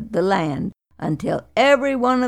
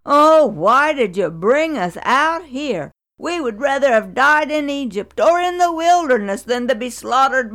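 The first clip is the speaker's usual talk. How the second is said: griping complaint; 5 semitones higher than usual. Acted. People complaining to Moses and Aaron, whining. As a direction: moan it out, dragging the woe. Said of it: "They griped and complained".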